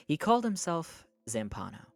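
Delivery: measured audiobook-style reading; story narration. A narrator's reading. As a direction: read it out as a novel's narrator. Reads a novel aloud.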